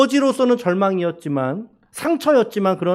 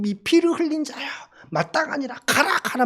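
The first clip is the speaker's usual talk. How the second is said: cursing; 7 semitones higher than usual. Retold or imitated. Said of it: "막 저주를 퍼붓단 말이에요".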